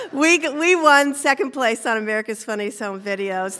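laughing through the words. Real, not acted. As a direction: giggle the words out. Laughing while telling win.

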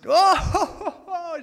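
high, loud mock guffaw; put-on high-pitched laughing fit; imitated harder laughing. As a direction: mimic someone howling with laughter. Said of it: "just laughing even harder".

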